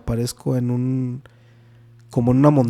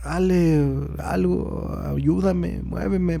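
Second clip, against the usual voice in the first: higher, pleading call to his wife; mild mock cry for help; 4 semitones higher, much slower than usual. Paralyzed in the dream, calling his wife with a pleading cry. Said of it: "ahí sí quise gritar".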